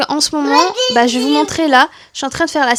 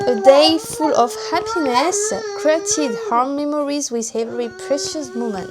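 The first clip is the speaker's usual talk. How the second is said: French-accented English. Real, not acted. Vlogger reading a mug slogan to viewers, French-accented English. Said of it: "désolée pour mon anglais tout pourri".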